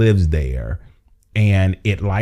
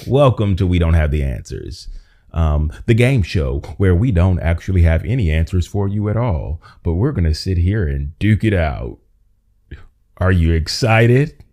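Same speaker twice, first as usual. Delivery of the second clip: upbeat host announcer; host the show with pep; game show voice. Shown as a demonstration. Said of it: "it's my game show voice".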